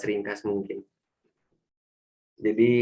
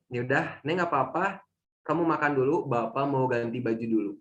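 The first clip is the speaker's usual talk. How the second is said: calm father. Retold or imitated. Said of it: "dia tetap tenang".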